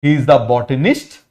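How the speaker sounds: teacher dictating the answer slowly. Shown as a demonstration. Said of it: "क्या हो जाएगा ये?".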